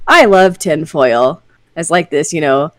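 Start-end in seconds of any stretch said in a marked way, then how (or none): 0.1-1.4 slow awed dad quote. Retold or imitated. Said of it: "imagine him being like".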